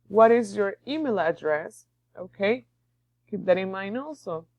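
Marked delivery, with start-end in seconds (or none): 0.1-1.9 "What is your email address?" ending on a clear rise on "address"; rising question tune. Shown as a demonstration. Teacher modelling question intonation for the class. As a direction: let the voice climb at the end. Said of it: "it has to sound like you go up".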